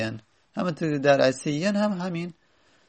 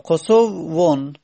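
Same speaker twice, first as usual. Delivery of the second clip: slow drilled word; 4 dB louder, much slower than usual. Shown as a demonstration. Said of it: "teacher drills the form slowly".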